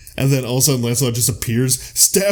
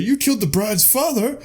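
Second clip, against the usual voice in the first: outraged Lord; 10 semitones higher than usual. Retold or imitated. The Lord scolding Lancelot over the wedding guests, high indignant squeal. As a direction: squeal it out like a scandalized nobleman. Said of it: "or he's like".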